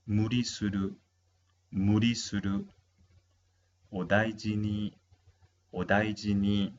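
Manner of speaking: "hidoi", "kaze", "muri suru", "odaiji ni" each said clearly as separate items; pronunciation drill. Shown as a demonstration. (pronunciar "hidoi", "kaze", "muri suru", "odaiji ni" como modelo, con pausas)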